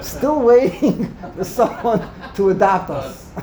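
joking through laughter, drawn out; laughing. Real, not acted. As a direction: chuckle midway through the plea. Joking with students about funding.

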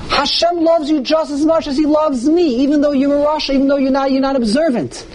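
father gently embracing his rebellious son; loving father's answer. Acted. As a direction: answer him with unconditional love. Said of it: "And you say to him".

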